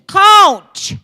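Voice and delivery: put-on high, loud whiny kid calling coach again and again. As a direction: call for the coach like a whining little boy. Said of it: "he sounds like Caillou".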